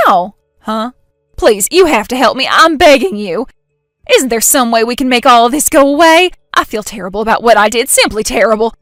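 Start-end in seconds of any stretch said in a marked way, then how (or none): 1.4-8.7 louder, begging and fast; pleading. Acted. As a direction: plead for any way out. Jen begging for rescue.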